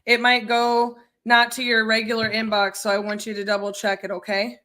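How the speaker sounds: light Southern accent, mirroring the client. Real, not acted. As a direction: talk to the seller with a Southern lilt. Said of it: "you mirror the thick Southern accent".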